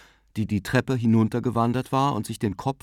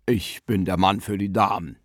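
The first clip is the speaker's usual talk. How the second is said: self-satisfied gentleman in a put-on voice; ladies' man. A narrator's reading. Bearded guest boasts to the ladies, gallant character voice. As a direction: declare it with playful gallantry.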